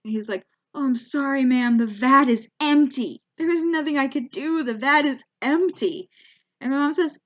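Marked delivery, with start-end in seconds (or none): 0.8-6.1 imitated pleading apology; retold regretful politeness; apologetic, very polite. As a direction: apologize helplessly as an overly polite shop clerk. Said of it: "he is so apologetic".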